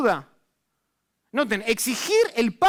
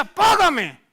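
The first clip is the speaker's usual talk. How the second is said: a sudden loud, higher "Págame!"; shouted demand; 6 semitones higher, 5 dB louder than usual. Acted. The forgiven servant shouting at his fellow servant for payment. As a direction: bark the demand at the debtor.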